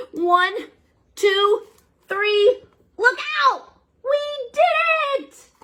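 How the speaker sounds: building count. Acted. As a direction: count up then celebrate. Count and triumph.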